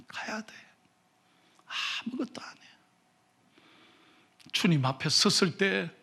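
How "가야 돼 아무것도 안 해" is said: whisper. Real, not acted. Preacher hushes on mortality.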